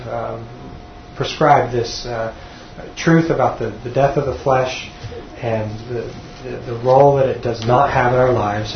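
measured, sincere prayer delivery; closing prayer. Real, not acted. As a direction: pray aloud for the group, pausing to find words.

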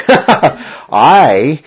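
"I" loud, high and drawn out; emphatic. Shown as a demonstration. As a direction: hit "I" hard and stretch it. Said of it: "more emphatic than the English comes across".

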